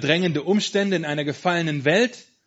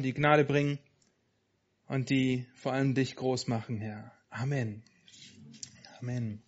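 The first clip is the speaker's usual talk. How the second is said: pastor praying calmly before the sermon. Real, not acted.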